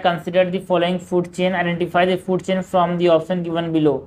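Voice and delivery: slow, even question reading; measured textbook read-aloud. Acted. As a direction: read the exam question out slowly.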